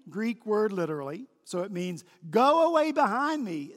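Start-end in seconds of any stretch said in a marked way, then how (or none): 2.3-3.7 high, loud order; emphatic, raised command. Retold or imitated. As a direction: send him away with authority. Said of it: "with the same commanding voice".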